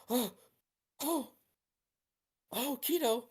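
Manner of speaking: stunned relief. Acted. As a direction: break into a high cry of shock and relief. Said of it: "she gasps".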